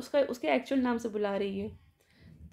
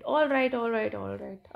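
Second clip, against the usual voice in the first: intimidated; 3 dB louder, much slower than usual. Retold or imitated. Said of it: "intimidated".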